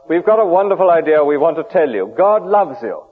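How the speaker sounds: mock the early Christians as weak and apologetic; feeble preaching. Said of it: "rather feebly".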